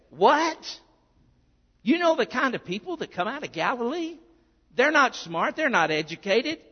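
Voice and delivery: high, mocking scorn at Galileans; scornful disbelief. Nathanael scoffing at people from Galilee, high and scornful. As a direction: sneer at the kind from Galilee. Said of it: "So Nathanael's saying".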